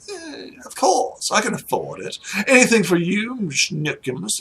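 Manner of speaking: lightly voiced lord showing off; swinging pitch, mock gallant; boastful noble husband. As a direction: play a husband indulging his wife. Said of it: "he's like".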